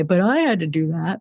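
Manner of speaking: whiny, put-upon complaint. Retold or imitated. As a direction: whine it like a resentful martyr. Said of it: "I always use that voice for that thing".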